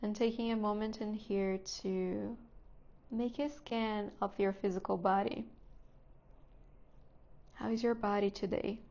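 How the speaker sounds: calm, unhurried guidance with long pauses; guided meditation. Real, not acted. Teacher settling students into seat, breath and body, guided meditation voice. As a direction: ease them gently into stillness, phrase by phrase.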